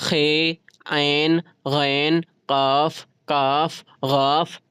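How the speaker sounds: each letter said slowly and drawn out from the throat; throat letters demo. Shown as a demonstration. Teacher showing students the throat letters, slow careful demo. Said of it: "हल्क से निकालते हैं".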